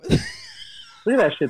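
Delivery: high amazed shout. Real, not acted. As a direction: blurt it out in disbelief. Amazed at frozen video.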